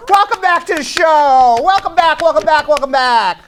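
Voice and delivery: booming welcome back; excited welcome. Real, not acted. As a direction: greet her big, like a game show host. Host greeting guest on show.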